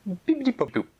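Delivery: high sing-song spell; magic spell. Acted. Fairy casting a healing spell, high sing-song. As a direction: cast the spell brightly. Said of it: "and she said".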